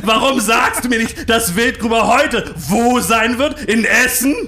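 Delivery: screaming in a high-pitched fury; berserk rage. Acted. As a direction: rant at the staff, loud and high. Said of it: "Zadek bekam einen Tobsuchtsanfall".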